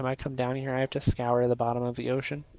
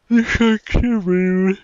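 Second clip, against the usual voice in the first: loud, slow, higher complaint; indignant outburst; 4 semitones higher, 11 dB louder, slower than usual. Real, not acted. Fed up with the sharks, loud slow complaint. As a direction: blurt it out, offended.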